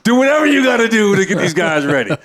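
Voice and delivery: head coach's permission. Retold or imitated. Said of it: "He says".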